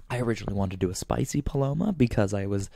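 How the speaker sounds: winded, talking between breaths; short of breath mid-sentence. Real, not acted. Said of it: "I'm out of breath".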